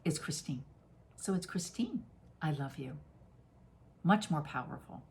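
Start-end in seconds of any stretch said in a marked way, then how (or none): 1.2-3.0 gently, just above a whisper; tender and soft. Shown as a demonstration. Guiding listeners, tenderly saying I love you to herself. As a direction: softly tell yourself I love you. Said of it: "what my soul recognizes".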